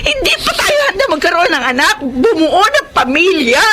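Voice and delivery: umiiyak habang ipinagtatanggol ang sarili; umiiyak na pagtutol. Acted. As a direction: pigil na hikbi, nakikipagtalo. Pagtatalo ng mag-asawa. (umiiyak na asawa habang ipinagtatanggol ang sarili sa asawa)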